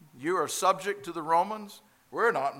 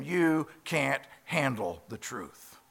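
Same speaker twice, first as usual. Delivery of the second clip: yelled movie line; slower than usual. Retold or imitated. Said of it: "he yells back at him".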